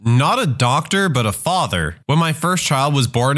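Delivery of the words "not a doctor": ordinary delivery, nothing marked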